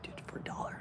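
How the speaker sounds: hushed shopkeeper quote; retold haggle in a whisper. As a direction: whisper the seller's reply.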